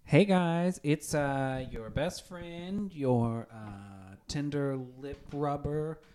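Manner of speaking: upbeat announcer voice, drawn out; cheesy ad host. Acted. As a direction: sell yourself like a sleazy ad host. Mock commercial host intro.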